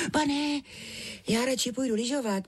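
put-on high child's voice, pleading to get out of eating; protesting little girl. A narrator's reading. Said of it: "bránila se". (prosebný hlas holčičky)

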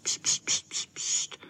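breathy little shushes; shushing. A narrator's reading. The boys shush each other in front of the dwarf, repeated shushing. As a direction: hush them quickly. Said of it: "hned dělali pst".

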